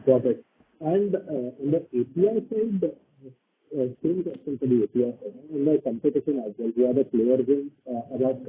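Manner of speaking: muffled, as if through a hand. Real, not acted. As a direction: speak from behind a covered mouth. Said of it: "you're muffled".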